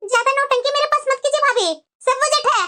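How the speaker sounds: irritated sister-in-law picking a quarrel; angry complaint. Acted. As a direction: scold with sustained, insistent indignation. ननद भाभी से gift पर झगड़ती. (नाराज़ ननद का ताना)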